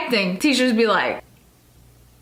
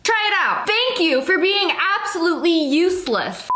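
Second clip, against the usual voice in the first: mocking retort; 4 semitones higher than usual. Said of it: "when she was like".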